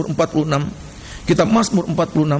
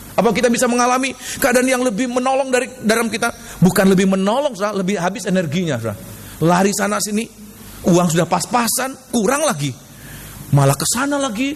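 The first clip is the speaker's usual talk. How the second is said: raised, insistent sermon pitch; preaching; 6 semitones higher than usual. Real, not acted. Preacher warning the congregation against panic, insistent and high. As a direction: press the point in a high preacher's voice.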